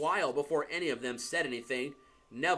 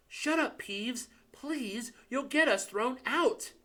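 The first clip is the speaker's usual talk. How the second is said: urgent plea; 9 semitones higher, slower than usual. Acted. Pleading with Peeves to be quiet.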